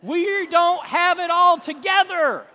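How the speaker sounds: high, loud mortified dad voice; loud, high, slow embarrassed wail. Retold or imitated. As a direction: groan it out, caught by the pastor. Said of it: "he just goes beet red, and he goes".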